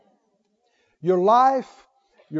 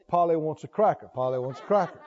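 low squawky parrot voice; 9 semitones lower, 5 dB quieter, faster than usual. Pretend. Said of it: "You're just like a parrot".

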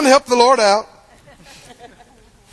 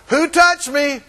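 persistent Jesus; 2 semitones higher, slower than usual. Retold or imitated. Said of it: "he just keeps standing there going".

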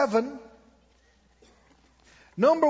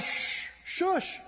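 whispered shush, high and breathy; hushing whisper; 9 semitones higher than usual. Retold or imitated. Telling the doubting man to hush, whispered. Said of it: "I said".

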